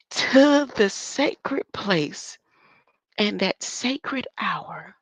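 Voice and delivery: slow, drawn-out ominous read; hushed, spooky slow delivery; slow mysterious reading. Shown as a demonstration. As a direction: read it like a secret prophecy. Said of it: "read that a little bit slower".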